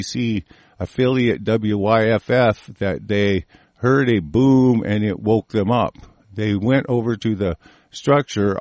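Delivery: measured reading of a news item; news report read-aloud. Acted. Host reading listeners the report on the explosion, read-aloud news delivery.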